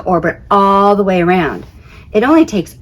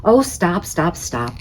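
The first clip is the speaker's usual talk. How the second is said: coy Saturn, fading; 5 dB quieter than usual. Acted. Saturn bashful.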